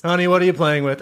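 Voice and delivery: lightly voiced mom's question; mom calling out. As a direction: call out like a mom to her kid. Voicing mom questioning the kid.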